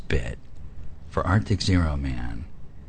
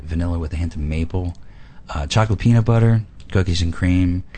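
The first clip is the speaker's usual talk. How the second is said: infomercial read. Acted. Reads product pitch like ad.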